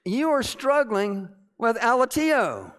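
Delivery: high, loud, slow preaching delivery; forceful rebuke. Retold or imitated. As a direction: proclaim the rebuke with full force. Same rebuke repeated with force.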